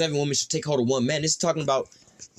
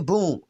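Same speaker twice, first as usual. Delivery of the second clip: imitated bang; 2 semitones higher than usual. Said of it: "Door getting kicked in".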